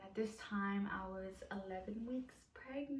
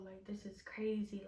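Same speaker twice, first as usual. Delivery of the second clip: awed whisper; 4 dB quieter than usual. Retold or imitated. Still shocked at pregnancy.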